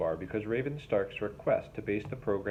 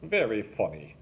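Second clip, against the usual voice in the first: through clenched jaws. A narrator's reading. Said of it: "said Derek through clenched jaws".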